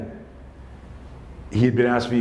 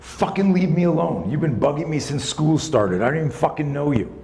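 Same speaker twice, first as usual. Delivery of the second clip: retold yell; 5 semitones higher than usual. Boy telling off his bully at the lockers, retold yell. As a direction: act out an angry yell, half-contained. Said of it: "and he yells at him".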